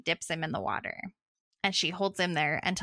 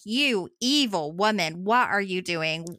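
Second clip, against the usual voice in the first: acted outrage; 4 dB louder than usual. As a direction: hit each word hard, playing outraged. Acted outrage at mother burning baby.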